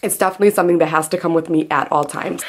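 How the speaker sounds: breathless after lifting the table; out of breath. Real, not acted. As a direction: talk between quick breaths, out of breath. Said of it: "I'm literally out of breath now".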